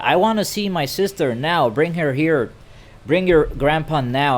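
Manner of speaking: insistent demand. Retold or imitated. Retold demand to see sister.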